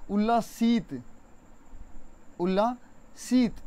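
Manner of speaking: उल्लासित drawn out slowly, syllable by syllable; उल्लासित, slow and deliberate; careful pronunciation. Shown as a demonstration. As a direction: spell out उल्लासित slowly for students. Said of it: "यहाँ बोलने में आएगा".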